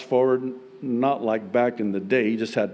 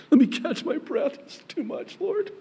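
high, breath-starved plea, overcome; emotional, voice thinning away; overwhelmed plea. Retold or imitated. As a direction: beg for a pause, choked with emotion. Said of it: "where you're just like".

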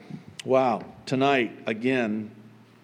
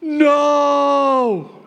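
long, high, loud "No"; drawn-out theatrical protest; mock outrage; 14 semitones higher, 8 dB louder than usual. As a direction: cry out in exaggerated disbelief. Mock outrage at the golden calf claim.

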